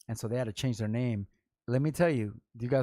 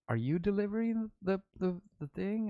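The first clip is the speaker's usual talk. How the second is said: high, cooing imitation of a flirting caller; mock flirty woman; 10 semitones higher than usual. Mocking women who called the shop, in a high cooing voice. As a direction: coo it up high like a smitten caller.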